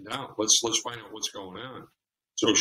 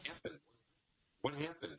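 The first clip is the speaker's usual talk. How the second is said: softer, worried "what's wrong" to a crying partner; softly concerned boyfriend; 3 semitones higher, 5 dB quieter than usual. Retold or imitated. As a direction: gently ask what happened, voice dropping away. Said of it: "he's going, my heart is breaking".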